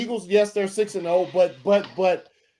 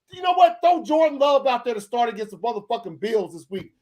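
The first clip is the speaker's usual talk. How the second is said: heated shout; 3 semitones higher than usual. Real, not acted. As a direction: shout it out in frustration. Shouting rant at Rodgers.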